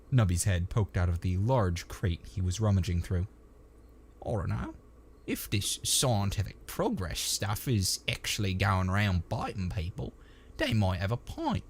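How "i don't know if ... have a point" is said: a touch of rough dialect, pondering; doubtful trooper. Acted. Trooper mulling over scientific progress biting people, doubtful.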